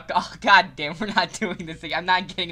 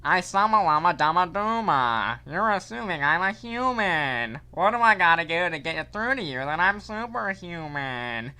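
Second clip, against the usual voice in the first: lightly voiced cartoon villain; a hint of a gloating villain; Baldy voice. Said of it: "I'll do this to the Baldy voice".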